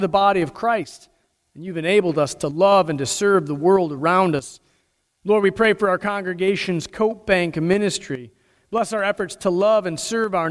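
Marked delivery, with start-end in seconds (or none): none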